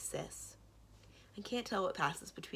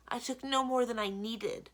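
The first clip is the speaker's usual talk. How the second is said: calling weakly; 6 semitones higher, 7 dB louder than usual. A narrator's reading. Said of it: "Blue calls weakly from the shadows".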